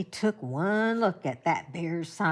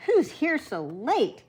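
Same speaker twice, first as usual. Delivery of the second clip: louder, slow, groaned question; groaning hunter; 6 semitones higher, 6 dB louder than usual. A narrator's reading. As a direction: groan it out wearily. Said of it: "Joseph groaned".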